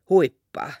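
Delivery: whisper. Acted. Paavo asks for juice, dizzy.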